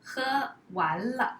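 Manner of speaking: steady, slowed example read; 放慢速度示范; slowish demo. Shown as a demonstration. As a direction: say it slowly and clearly. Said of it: "example sentence".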